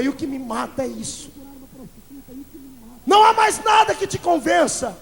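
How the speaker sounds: fiery preaching. Acted. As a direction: drive it home at the sinners. Preacher rebuking the church.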